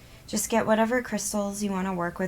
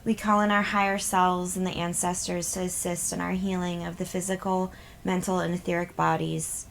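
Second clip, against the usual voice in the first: measured, even prayer with pauses between petitions; spoken invocation. Real, not acted. Healer calls in guides to protect the group, measured invocation. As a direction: recite a protective blessing, evenly paced.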